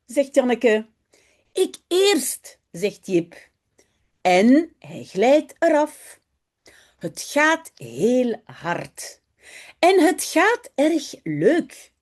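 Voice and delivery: slow, careful reading aloud for learners; story reading. A narrator's reading. Teacher reading a Dutch story aloud to her students. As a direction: read each sentence slowly and clearly.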